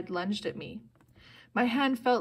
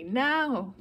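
raised, insistent shout; urgent yell; 4 semitones higher, 4 dB louder than usual. A narrator's reading. Annabeth hurries Percy off the bus, urgent yell. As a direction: yell it to hurry someone along. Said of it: "Annabeth yelled at me".

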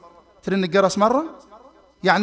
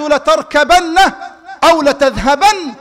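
higher, louder, laughing firm choice; laughing insistence; 4 semitones higher, 4 dB louder, much slower than usual. Retold or imitated. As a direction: insist warmly through a laugh. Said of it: "قال".

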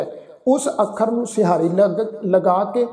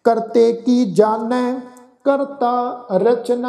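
slow, measured verse recitation; deliberate chant-like reading with pauses; scripture recitation; 3 semitones higher, much slower than usual. Shown as a demonstration. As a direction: recite line by line with held final syllables.

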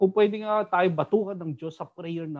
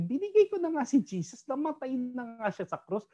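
voicing God; 7 semitones higher than usual. God voiced, rising emphatic.

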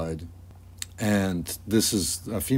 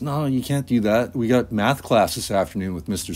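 objecting; 3 semitones higher than usual. Acted. Other kid argues against it.

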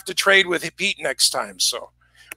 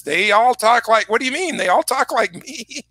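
light mock Southern Illinois accent, higher pitch; 4 semitones higher than usual. Southern Illinois man insisting everyone talks like him, imitated accent. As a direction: protest it as the puzzled local, lightly imitated. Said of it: "He says".

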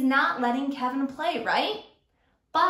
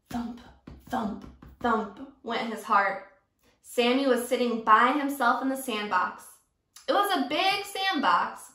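reading a picture book aloud to the class; storyteller pacing with small dramatic dips; story narration. A narrator's reading. Teacher reading a story to her class, expressive.

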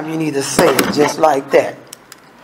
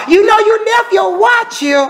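high, sweet mistress voice calling; sugary caller voice, pitched way up; playing the other woman, sly and high; other woman on the phone; 13 semitones higher than usual. Other woman calls the house.

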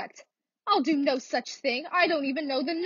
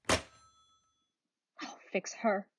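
low muttered threat; 6 semitones lower, 6 dB quieter, much slower than usual. Acted. Woman muttering revenge on the operator, slow and low.

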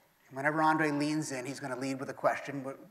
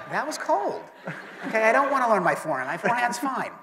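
mock offended; 7 semitones higher, 6 dB louder than usual. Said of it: "And I'm like".

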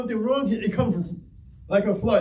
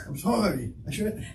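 soft self-directed apology; talking to oneself; 6 dB quieter than usual. Retold or imitated. Preacher replays his talk with himself, softly muttered. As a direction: let the apology sink quieter into a hesitation. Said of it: "having a conversation by yourself".

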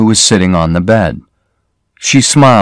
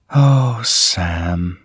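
said quietly; 6 dB quieter than usual. A narrator's reading. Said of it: "she said quietly".

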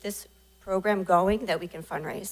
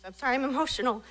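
laughing through tears; 5 semitones higher, much faster than usual. Real, not acted. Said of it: "it's emotional to see the stress".

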